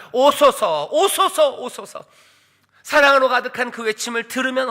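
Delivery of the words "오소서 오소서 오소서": loud, higher cries with a laugh; joyful cry. Acted. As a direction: cry out gladly, laughing at the end. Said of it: "성령과 신부는 외칩니다". (웃음 섞인 기쁜 외침)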